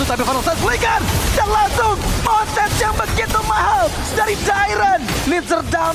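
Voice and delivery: rising shouted play-by-play hype; fighting game announcer. Real, not acted. Caster hype during teamfight.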